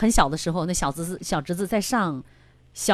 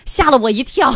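laughing; 6 semitones higher, 7 dB louder than usual. Real, not acted. Host recalls son's question.

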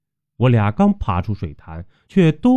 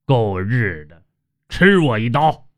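cursing battle cry, only mildly raised; mild narrated yell. A narrator's reading. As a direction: yell it as you swing the blade, without full volume. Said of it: "嘴里边嚷道". (略带狠劲地嚷骂)

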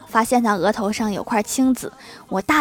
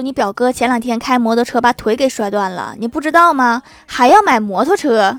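louder, rising rebuke from a dad; glaring father's scolding; 5 dB louder than usual. Acted. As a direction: scold your son, building to a loud challenge. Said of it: "我老爸一瞪眼睛".

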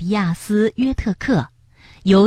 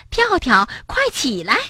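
eager wake-up call; 5 semitones higher than usual. Acted. Waking a sleeping friend.

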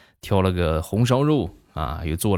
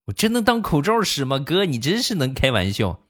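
imitating doubtful cousin; 7 semitones higher than usual. Cousin doubts the diaper mask.

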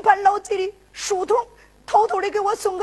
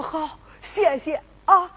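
tearful thanks; 3 semitones lower, slower than usual. Acted. Rescued brother thanks from the well.

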